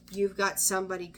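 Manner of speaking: ordinary delivery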